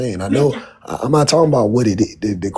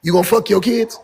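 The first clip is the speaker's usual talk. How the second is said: shouting; 5 semitones higher than usual. Real, not acted. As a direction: yell it in disbelief. Heated argument, shouted question.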